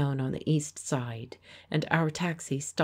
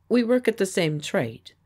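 politely; 5 semitones higher, 5 dB louder than usual. Acted. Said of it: "he said politely".

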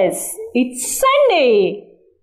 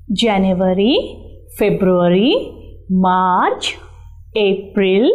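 singsong classroom recital of months; sing song rote recitation. Shown as a demonstration. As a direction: chant each month, rise on each.

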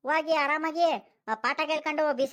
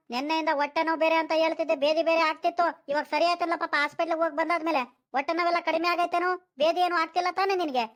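raised, higher-pitched questioning; mild shouting; 4 semitones higher than usual. Acted. Grandfather asks grandson about his upset stomach, mildly shouting. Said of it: "ಅದ್ಯಾಕೆ ಹಿಂಗ್ ಕಿರ್ಚಾಡ್ಕೊಂಡ್ ಕೇಳ್ತಿದ್ಯಾ".

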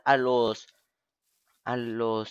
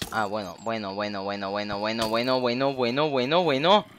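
building exasperation. Real, not acted. Repeated bueno building up.

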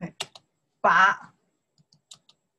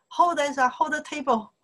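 higher, urgent call to hold the table; urgent order; 6 semitones higher than usual. Retold or imitated. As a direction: pretend someone urgently grabbing the wobbly table. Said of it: "Maybe somebody say".

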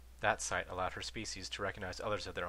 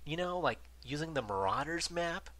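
sarcastic; 8 semitones higher, 3 dB louder than usual. A narrator's reading. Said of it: "he said sarcastically".

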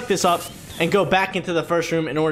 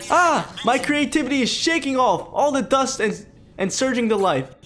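director ghost voice; 6 semitones higher than usual. Pretend.

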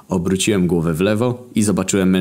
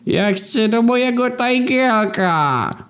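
very high, slow, drawn-out wail; wailing lament; slower than usual. A narrator's reading. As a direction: wail it like a siren, worse than a scream. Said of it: "usłyszałem ten lament". (Kobra zawodzi wysokim, przeciągłym lamentem)

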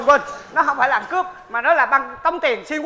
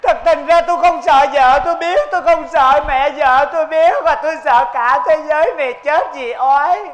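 loud mock lament; 3 semitones higher, 4 dB louder than usual. Victim rants about fear.

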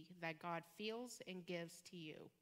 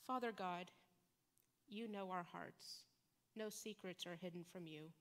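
prayer. Acted. Pastor leading the congregation in closing prayer, hushed and earnest. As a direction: pray it gently over the congregation.

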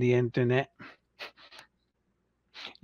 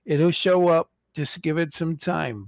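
mock scolding; 4 semitones higher than usual. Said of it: "I'm like".

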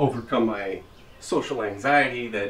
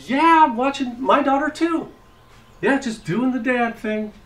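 high, loud, overexcited actor-buddy greeting; pumped-up celebrity bro; 8 dB louder than usual. Pretend. Dad at the park posing as a movie star, loud and high. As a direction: greet him like a starstruck fellow celebrity, way too pumped. Fake Chris Pine, hyped bro.

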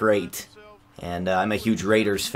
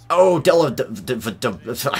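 excited stammer; 3 semitones higher, 4 dB louder than usual. Real, not acted. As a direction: blurt it out in excitement. Excited, stumbling over the name.

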